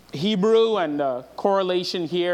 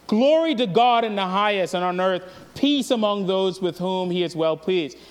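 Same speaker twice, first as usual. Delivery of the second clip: raised, ringing start that settles; mild proclaiming cry; 4 semitones higher, 4 dB louder than usual. Retold or imitated. Preacher quotes every angel in heaven, mildly crying out. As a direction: proclaim it, starting higher and louder, then easing. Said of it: "began to cry out".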